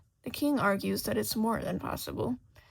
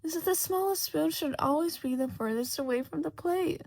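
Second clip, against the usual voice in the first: higher, ringing moral; loud pronouncement; 6 semitones higher than usual. A narrator's reading. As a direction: declare it like a decree. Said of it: "the Duchess adds loudly".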